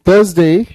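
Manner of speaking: "थर्सडे" as THUHZ-day, no R sound; silent R. Shown as a demonstration. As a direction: model "थर्सडे" for a class, rising on the last syllable. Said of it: "आर की sound नहीं आएगी".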